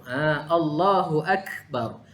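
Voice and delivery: "Allahu Akbar" slow with a breath of air on the h; breathy h sound. Shown as a demonstration. Teacher to students, showing the airy h. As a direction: let the h of "Allahu" carry a little air. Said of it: "Pastikan dia ada bunyi, ha, angin sedikit".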